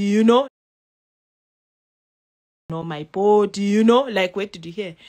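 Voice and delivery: rising to loud exasperated questions. Retold or imitated. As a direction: push the questions out, annoyed. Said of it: "I'm, I'm thinking".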